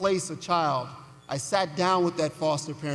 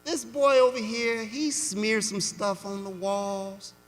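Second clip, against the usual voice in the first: sweet Southern dialect. Retold or imitated. Foster mother reassuring the caseworker, lightly in Southern dialect. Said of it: "in her sweet Southern dialect".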